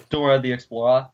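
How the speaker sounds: Explorer ending in an open "uh"; local pronunciation. Shown as a demonstration. Friend showing how they say Dora the Explorer, "Explorer" ending in "uh". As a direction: say "Explorer" with its last r softened to "uh". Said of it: "I love the way that we always say".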